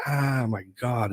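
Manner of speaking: slow, drawn-out mock cry of pain; pained exclamation. Patient shocked in the elbow, retold pained cry. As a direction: groan it out slowly, as if zapped.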